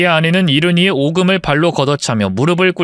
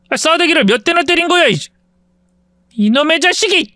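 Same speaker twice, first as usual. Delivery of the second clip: higher, indignant yelp after being slapped; outraged bully; 12 semitones higher than usual. Acted. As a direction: lash back in outrage. Cousin slapped, lashes back.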